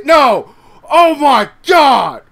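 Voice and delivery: sudden shocked shout; shocked outcry. Real, not acted. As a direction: cry out in disbelief. Shocked commentator at a reversal.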